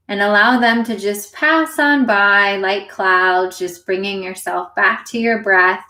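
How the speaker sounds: unhurried meditation guide, long pauses between phrases; guided meditation. Acted. Meditation teacher leading listeners into their breath, guided meditation. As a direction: gently lead listeners through it, leaving space to breathe.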